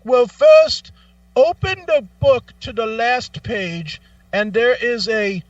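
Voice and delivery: walk him through it like a script; mock instructing agent. Agent voiced.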